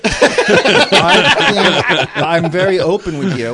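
lightly voiced Walken, halting and warm; Christopher Walken impression. Friends banter, he does Walken at Chris. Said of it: "would you say that's your best impression".

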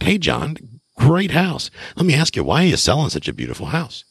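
high-pitched, complimentary lead-in to a question; disarming high-voiced flattery; friendly, inoffensive inflection. Shown as a demonstration. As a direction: ask it lightly, pitched well up, so nobody is offended. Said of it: "ask it with the right inflection in your voice".

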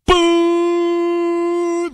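high held honk; imitated car horn. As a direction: honk like a long angry horn.

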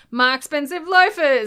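high, loud wail of complaint; mock dismay. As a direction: moan over ruined shoes, hammed up. Luther voiced, dismayed at soiled shoes.

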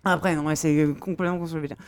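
talking while chewing; mouth full. Real, not acted. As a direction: speak through a mouthful of food. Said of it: "je mange un petit saucisson au passage".

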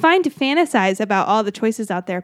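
measured horoscope reading voice; lightly performed horoscope read; reading a horoscope aloud. Acted. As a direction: read the forecast like a columnist. Reads out horoscope.

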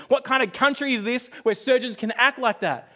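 high, loud furious yell, slowing at the end; father yelling at the surgeon as he leaves, enraged. Retold or imitated. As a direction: hurl it at him, outraged and loud. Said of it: "starts yelling at the surgeon".

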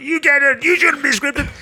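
high mock scolding voice; exaggerated objector voice; finger-wagging scold. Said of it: "waves their finger at you when they're talking".

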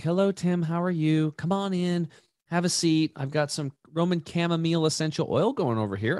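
friendly Reiki therapist greeting a client, lightly imitated; nice calm masseuse. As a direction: imitate the nicest lady welcoming you in. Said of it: "she's this nice, calm".

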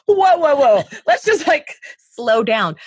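high, loud mock "whoa" easing off; playful high-pitched protest; retold alarmed interruption. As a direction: imitate a husband hurriedly reining someone in. Husband cutting in on blunt talk.

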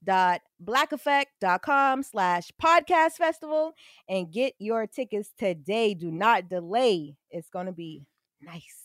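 slow, punchy ad announcement; promo read. Acted. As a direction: sell the event to listeners, slowly. Announces the festival ad.

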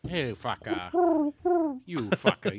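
high, drawn-out pidgin slang; Hawaiian pidgin accent. Retold or imitated. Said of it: "the old accent comes out".

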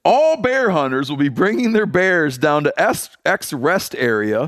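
high, booming mock proclamation; town crier. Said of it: "they're like".

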